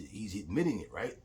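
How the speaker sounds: ordinary delivery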